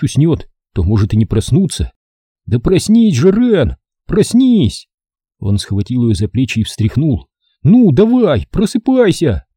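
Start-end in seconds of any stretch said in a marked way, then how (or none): 2.5-4.9 urgent calling. A narrator's reading. Torak shakes Ren awake. 7.6-9.4 urging. A narrator's reading. Torak shakes Ren awake.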